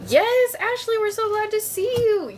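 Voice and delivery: high sing-song cabin greeting; flight attendant. Acted. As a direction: welcome them aboard brightly. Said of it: "it sounded like a flight attendant".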